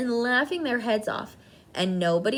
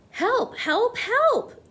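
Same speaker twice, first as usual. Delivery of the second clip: high, loud desperate screams; screaming for help; 12 semitones higher, 5 dB louder, much slower than usual. A narrator's reading. Cook screaming for help with a mouse in his trousers. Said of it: "the man was screaming".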